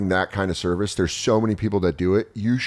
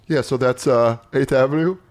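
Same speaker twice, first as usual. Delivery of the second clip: holding back a laugh; 3 semitones higher than usual. Retold or imitated. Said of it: "someone holding their laugh".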